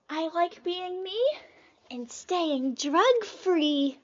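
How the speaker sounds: mock slogan read. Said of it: "it's the message".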